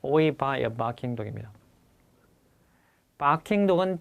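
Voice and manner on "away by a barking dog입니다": slow dictation. Shown as a demonstration. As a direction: answer read out slowly, word by word. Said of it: "이게 답이었댔습니다". (답 문장을 천천히 또박또박 불러주듯)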